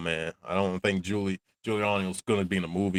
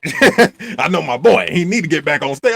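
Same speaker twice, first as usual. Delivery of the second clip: mock callous father; 7 semitones higher, 8 dB louder than usual. Joe Jackson to the doctor about his burned son, hammed-up cold insistence. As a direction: lean on it like he doesn't care. Voicing Joe after hospital.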